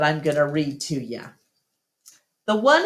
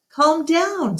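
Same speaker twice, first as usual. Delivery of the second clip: scolding voice; 11 semitones higher than usual. A narrator's reading. Bob scolds Ivan dancing.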